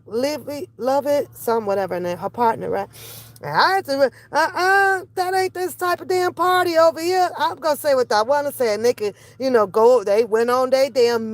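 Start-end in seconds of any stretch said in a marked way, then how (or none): 4.3-7.3 higher-pitched sassy refusal; retold objection. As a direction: shut it down with a high "uh-uh". Retelling own objection.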